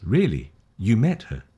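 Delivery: "Really" lifted as a question; rising questions. Shown as a demonstration. Teacher repeats both questions for learners, rising question tune. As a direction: lift "met" in a short surprised-style question. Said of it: "You see both up. Questions".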